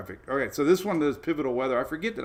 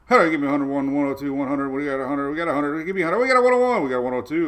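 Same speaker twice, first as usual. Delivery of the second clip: auctioneer; 6 dB louder than usual. Retold or imitated. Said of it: "I saw, like, an auctioneer".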